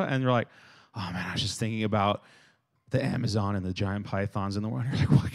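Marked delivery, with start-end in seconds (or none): 0.9-4.9 a hint of a spaced-out friend, low and quick; lightly voiced daydreamer, softer and lower; dazed daydreamer. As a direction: mumble it as if just coming to.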